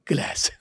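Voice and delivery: ग्लास with a flat ae vowel, "gles"; American ग्लास as "glæs"; American glass. Shown as a demonstration. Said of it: "तो American वाला?".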